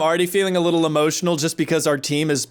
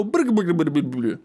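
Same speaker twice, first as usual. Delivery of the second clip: jowl-shaking brr. Pretend. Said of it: "take their jowls and go".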